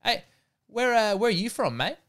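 a hint of a gruff old bouncer; retelling the bouncer questioning a friend, lightly voiced; imitating the bouncer. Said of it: "I hear the bouncer ... go".

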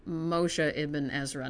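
"Moshe Ibn Ezra" spelt out slow and careful, MO-she; Hebrew name said slowly. Shown as a demonstration. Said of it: "I'm gonna refer to him as M".

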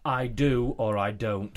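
slow, drawn-out dramatic announcer voice. Acted. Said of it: "What was that voice?".

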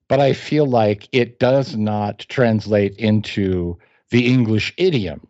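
drawn out, stiff and slow like a stuffy translator's note; mock solemn, each phrase weighed out slowly; slow mock-formal pronouncement. Reader mocking the clunky translation, slow and mock-formal. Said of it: "I'm just like".

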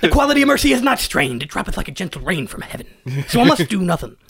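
Barbossa. Acted. Comic showing how Shakespeare actors talk, mock pirate recital. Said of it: "actors talked like Barbossa".

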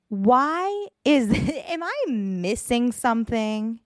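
words spilling through a real laugh, starting high; laughing disbelief. Real, not acted. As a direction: laugh at how absurd it is.

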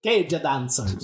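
drawn out slowly with gestures; slow dramatic. Pretend. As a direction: savor each word, slowly. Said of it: "Hand gestures".

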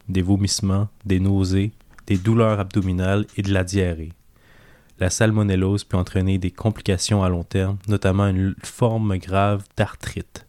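deep, captivating radio announcer voice. Shown as a demonstration. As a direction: read it like a hypnotic late-night radio host. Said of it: "ma voix la plus, euh, grave et, euh, envoûtante".

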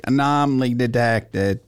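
slow, flat machine voice; robot voice. Shown as a demonstration. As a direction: imitate a computer alert. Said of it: "It said, like".

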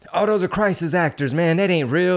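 high-pitched dismissive doubters; mock skeptics. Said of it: "People saying".

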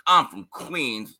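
slow, puffed-up mock boast; drawn-out imitation of a pompous boast; bloviating Stephen A. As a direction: bloviate it slowly. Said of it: "he does this whole, like".

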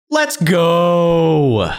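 long, loud, high hype yell; hype shout. Acted. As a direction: belt the sign-off out. Sign-off shout.

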